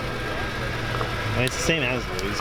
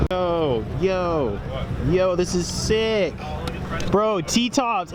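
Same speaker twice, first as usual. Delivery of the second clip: excited; 5 semitones higher, slower than usual. Real, not acted. Thrilled at spotting a car.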